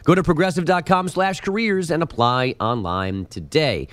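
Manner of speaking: brisk radio ad read; polished sports-update sponsor plug. Acted. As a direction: read the sponsor copy smoothly. Reads sponsor line.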